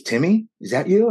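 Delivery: a hint of the dad's startled recognition; surprised older man. Voicing his friend's father.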